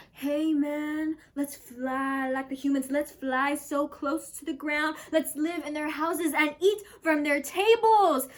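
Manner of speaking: lightly voiced bird talking to its buddy; first blackbird. One blackbird urges the other to fly like humans, growing keen. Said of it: "one says to the other".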